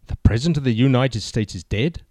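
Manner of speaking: stunned, disbelieving question; can't believe what you hear; gulping in disbelief. Acted. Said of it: "The agent gulped in disbelief".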